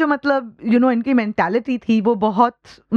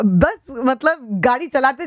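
ordinary talk

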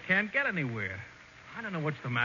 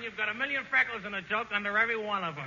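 ordinary talk

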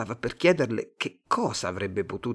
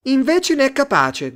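very high, loud cry; high-pitched shout over the others; shouted retort; 14 semitones higher, 9 dB louder than usual. A narrator's reading. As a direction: yell back in contradiction. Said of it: "gridò un'altra".

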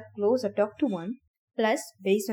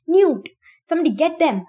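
loud, higher urgent call; shouting for help; 7 semitones higher, 8 dB louder than usual. Acted. Thomas shouting for help over the collapsed runner, loud. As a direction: yell it, somebody has to come. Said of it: "he shouted".

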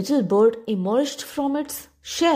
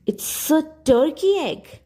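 declaring; 6 semitones higher than usual. Acted. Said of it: "declared the old duck".

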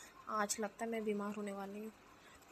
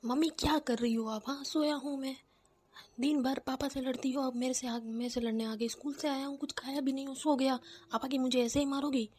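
son talking back loudly; loud complaint; 3 semitones higher, 4 dB louder than usual. Acted. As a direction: raise your voice in irritated protest. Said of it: "इतने बड़े आवाज़ में बात कर रहा है".

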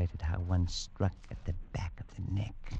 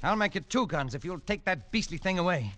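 much higher, pleading; desperate plea; 11 semitones higher, 3 dB louder than usual. Acted. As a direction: beg them to take it away. Desperate offer to remove head.

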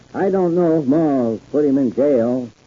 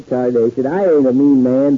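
ordinary talk, nothing marked

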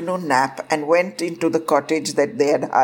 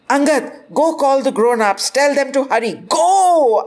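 urgent command; 8 semitones higher than usual. A narrator's reading. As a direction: send him off urgently. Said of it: "I shouted".

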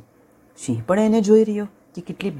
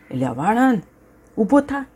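roaring lion; 6 semitones higher than usual. Acted. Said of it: "ત્રાડ નાખી".

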